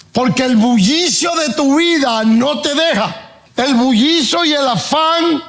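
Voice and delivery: high, slow, impassioned preaching; fervent pulpit climax, high and slow; preaching at full force. Acted. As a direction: lift the voice high and stretch each word.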